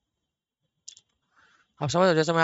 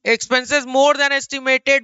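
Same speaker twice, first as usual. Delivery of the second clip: slow emphatic read; 8 semitones higher, 5 dB louder, much slower than usual. Shown as a demonstration. Reading textbook line emphatically.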